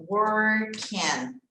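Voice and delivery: "Working" said "worken" with a strong N; teacher demonstrates "Working"; swallowed G. Shown as a demonstration. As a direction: drop the G in "Working", land on N. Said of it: "a gente vai dar uma engolida nele".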